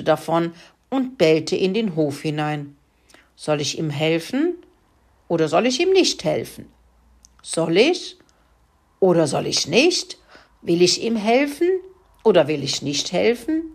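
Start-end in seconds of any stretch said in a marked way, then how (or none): 3.4-13.6 lightly voiced dog weighing it up; pondering dog. Dog dithering whether to help the pig, light musing. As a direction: muse aloud, a lazy dog dithering. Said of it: "überlegte Mack".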